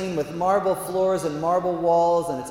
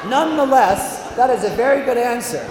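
loud, raised, emphatic verdict; God the Father; 8 semitones higher, 8 dB louder than usual. Acted. God still approving the Dominican's creed, loud grand pronouncement. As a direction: declare it grandly over the laughter. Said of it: "So that's how he talks".

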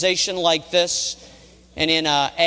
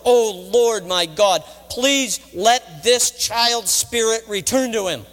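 slow, pleading cry to the Lord; impassioned plea, pitched up and drawn out; crying out in prayer; 3 semitones higher than usual. Acted. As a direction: beg God with mounting urgency. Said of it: "he cried out to the Lord".

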